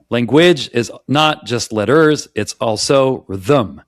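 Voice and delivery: slowed, leaning on "language" and "also"; slow deliberate stress. Shown as a demonstration. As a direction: stress "language" and "also" heavily in "Language is not just letters, it's also rhythm.". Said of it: "I just said the same sentence a second way".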